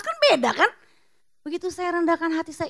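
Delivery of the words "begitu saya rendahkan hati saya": ordinary delivery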